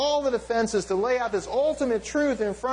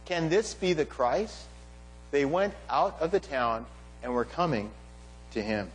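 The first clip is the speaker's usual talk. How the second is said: measured reading aloud, phrase by phrase with pauses; scripture reading; 4 semitones lower than usual. A narrator's reading. Preacher reading the disciples' return to the congregation, measured scripture reading. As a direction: read the passage out deliberately, letting phrase ends fall low.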